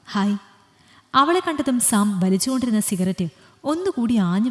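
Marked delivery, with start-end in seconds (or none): 0.1-0.4 understated hello, anger held back; a curt hi through a forced smile; forced polite hi. Acted. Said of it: "മനസ്സിൽ ദേഷ്യമെങ്കിലും മുഖത്ത് ചിരി വരുത്തി".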